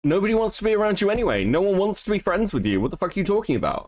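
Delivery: high, fast, scornful retort; exasperated talking back to a recording; indignant heckle. Real, not acted. Streamer snaps back at played apology.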